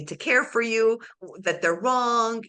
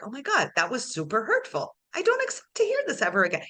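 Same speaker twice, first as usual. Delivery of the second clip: raised, fast protest; emphatic self-talk. Retold or imitated. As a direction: speed up and rise in pitch. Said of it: "I'm like".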